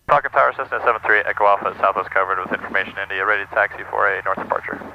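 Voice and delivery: brisk, steady radio transmission; real cockpit radio call, projected; pilot radio call. Real, not acted. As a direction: rattle off the call clearly to the tower. Making the actual radio call.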